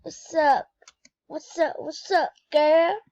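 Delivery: practicing a hype greeting for her friend, loud and bright; upbeat greeting. Shown as a demonstration. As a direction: greet her with energy, hitting "girl" loud and rising. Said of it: "I'm gonna say that".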